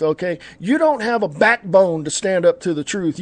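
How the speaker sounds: normal talking voice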